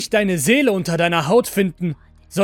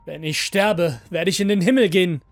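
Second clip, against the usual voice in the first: raised voice, speeding up; hurried arguing; 4 semitones higher, 7 dB louder than usual. A narrator's reading. Master arguing for his life, hurried and louder. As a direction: rush the argument out urgently. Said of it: "argumentierte der Meister schnell".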